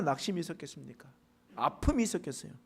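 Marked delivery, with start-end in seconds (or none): 1.6-2.5 whispered aside. Real, not acted. Preacher imagining beggar's pain.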